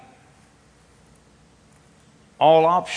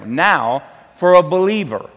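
louder and higher, driving it home; emphatic preaching; 5 semitones higher, 7 dB louder than usual. Real, not acted. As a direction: preach it out with force. Preacher raises voice.

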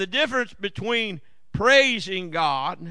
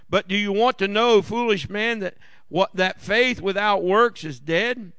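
scripture reading. Acted. Reads scripture aloud.

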